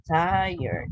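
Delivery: "tired" as "TIE-erd", ending in r plus d; correct pronunciation. Shown as a demonstration. Teacher modelling the word for students, "tired" as "tie-yerd". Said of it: "like that".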